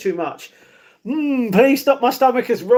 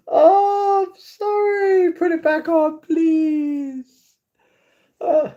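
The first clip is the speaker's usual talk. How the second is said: much higher, whiny plea; panicked apology; 7 semitones higher, much slower than usual. Real, not acted. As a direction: beg them to put it back on. I've just ruined Netflix.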